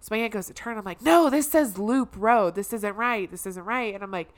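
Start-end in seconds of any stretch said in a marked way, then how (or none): 1.0-3.9 raised, loud start that settles; alarmed objection. Retold or imitated. Niece objects to aunt turning on loop road, alarmed. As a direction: protest the wrong turn.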